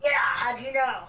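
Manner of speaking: distant voice, echoing off the bathroom walls; calling out from far off in an echoey room; from across the room. Real, not acted. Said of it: "you sound like you're across the room".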